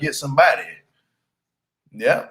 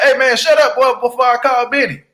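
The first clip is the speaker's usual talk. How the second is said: mock tough threat; 8 semitones higher than usual. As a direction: puff up and threaten like a big shot. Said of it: "Be like".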